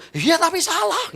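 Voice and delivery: slow, high-pitched indignant comeback. Retold or imitated. Husband cutting back at his wife's explanation, tone suddenly high. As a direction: re-enact your voice shooting up in protest. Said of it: "tiba-tiba tuh nada saya tuh bisa tinggi".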